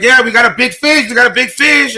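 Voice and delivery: mildly excited mock crowing; retold gleeful boast. Cops celebrating a big drug bust, happy. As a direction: imitate officers pleased with their catch. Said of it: "they're all happy".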